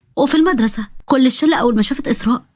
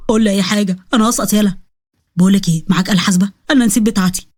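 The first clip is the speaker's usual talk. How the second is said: a hint of a lower boy's voice, pleading; lightly voiced schoolboy; 5 semitones lower than usual. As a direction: lightly drop into a panicky schoolboy. Boy whispering in exam.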